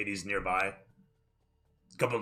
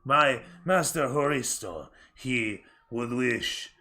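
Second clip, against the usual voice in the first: slow, measured servant's voice; formal aide; slower than usual. Acted. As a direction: speak each word deliberately for your master.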